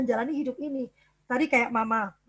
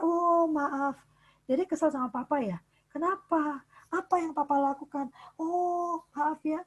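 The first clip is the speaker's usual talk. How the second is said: put-on a father softly apologising to his angry child; gentle apologetic father; 3 semitones higher, 4 dB quieter than usual. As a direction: soothe the upset child. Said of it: "Papa akan mengatakan".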